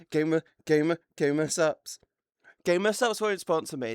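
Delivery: whispered aside; whispering. Real, not acted. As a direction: breathe it out as a secret. Joking complaint, whispered aside.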